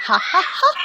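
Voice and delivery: demo laugh. Shown as a demonstration. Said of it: "You gonna laugh for me?".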